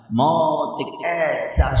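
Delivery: usual speaking voice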